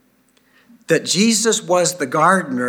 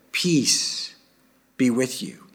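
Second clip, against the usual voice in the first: peace breathed out in a whisper; hushed, whispered blessing; whispered greeting; 2 semitones lower, 3 dB quieter, slower than usual. Acted. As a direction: let it fall to a hush. Jesus greets the disciples again.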